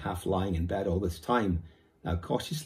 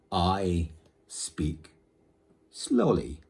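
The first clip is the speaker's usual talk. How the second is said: mild grunt; 2 semitones lower, much slower than usual. Acted. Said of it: "grunted the miniature Indian".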